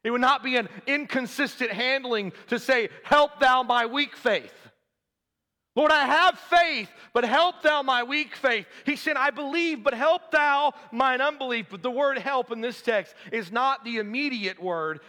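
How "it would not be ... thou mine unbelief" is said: high, loud pulpit plea; forceful preaching. Acted. Preacher voices the father's prayer for faith, forceful preaching. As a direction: preach it with ringing emphasis.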